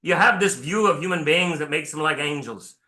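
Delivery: a preacher's rough Irish brogue for the weary soldier; Irish accent. Retold or imitated. Irish sergeant answering his colonel, in a rough Irish accent. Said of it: "and forgive my accent".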